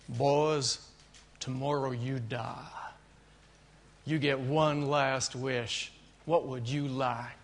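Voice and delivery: slow, lightly voiced Texas jailer drawl. Jailer tells the condemned programmers their fate, slow and deliberate.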